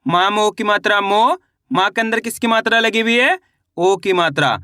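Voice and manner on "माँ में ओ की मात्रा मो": teacher's drill chant ending on rising "मो"; pronunciation demonstration. Shown as a demonstration. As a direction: hold "मो" long and lift it at the end. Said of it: "अब उच्चारण किस तरीके से करेंगे चलिए देखिए".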